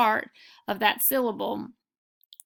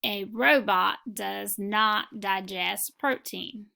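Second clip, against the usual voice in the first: slow dictation reading; slower than usual. Shown as a demonstration. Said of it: "now I'm going to read the sentences".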